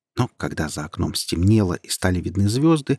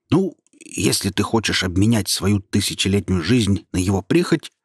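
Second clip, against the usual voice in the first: displeased. Acted. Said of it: "недовольно сказал голос".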